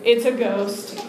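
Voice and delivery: slow, understated mock fright; paralyzed. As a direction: say it as if frozen to the spot. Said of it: "like, paralyzed".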